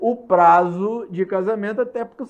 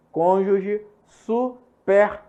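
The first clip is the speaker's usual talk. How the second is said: very slow, "superstite" broken into syllables; careful slow spelling-out; much slower than usual. Shown as a demonstration. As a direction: space out "Cônjuge superstite" syllable by syllable. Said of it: "separado silabicamente".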